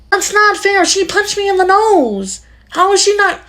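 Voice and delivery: put-on high whiny little girl voice, indignant; child protesting. Little girl complaining to her parent about unfair punishment, high whiny voice. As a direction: plead like a wronged kid sister.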